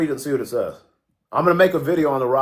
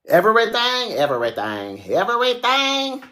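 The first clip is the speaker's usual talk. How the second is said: hyped up; 8 semitones higher than usual. Acted. Hyped repeated exclamation.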